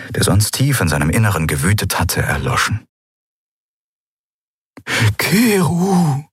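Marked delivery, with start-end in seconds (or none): 5.2-6.2 high, pressing call of his name; urgent Xea. A narrator's reading. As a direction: urge him, voice lifted high. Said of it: "sagte Xea eindringlich".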